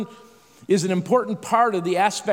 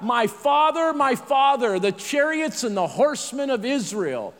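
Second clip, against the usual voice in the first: raised, higher cry easing off; 4 semitones higher than usual. Acted. Elisha calls after departing Elijah, crying out. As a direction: call "My father" high, then settle toward reading pitch. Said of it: "cried out".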